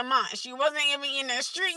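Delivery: matter-of-fact mimicry of her son; imitating serious son. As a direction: quote a kid with no emotion. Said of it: "he be so serious".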